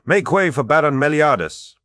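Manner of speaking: high, loud commanding call; bellow. A narrator's reading. De Verck pretending to ride for Meliadus, bellowing. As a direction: shout the false order over the din. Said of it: "bellowed de Verck".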